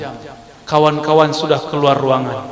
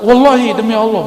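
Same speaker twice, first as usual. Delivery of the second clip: fast sworn oath; 7 semitones higher, 6 dB louder, faster than usual. Retold or imitated. Friend swears again.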